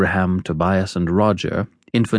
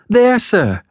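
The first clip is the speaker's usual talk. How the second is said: put-on high, anxious little boy; timid high-pitched child; 13 semitones higher, 5 dB louder than usual. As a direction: explain nervously in a raised child's voice. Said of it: "I timidly explained".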